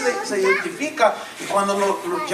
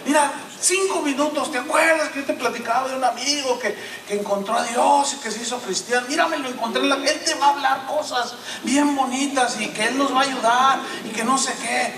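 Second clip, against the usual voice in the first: higher-pitched imitation of a husband begging; retold tearful pleading; 6 semitones higher than usual. Husband begging his wife not to leave, mock-tearful pleading. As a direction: plead urgently, mimicking a desperate man. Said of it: "él llorando le dice".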